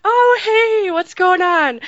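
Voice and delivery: high, squeaky fake-casual hello; startled squeak. Meeting someone from another podcast, a high nervous squeak. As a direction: squeak out a hello, trying to play it cool. Starstruck greeting, faking cool.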